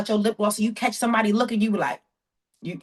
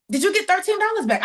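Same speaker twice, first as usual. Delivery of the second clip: higher and louder, spelling it out; louder repeat; 8 semitones higher than usual. Retold or imitated. Repeating to the lady who didn't catch it, louder. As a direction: say it again so she hears it this time.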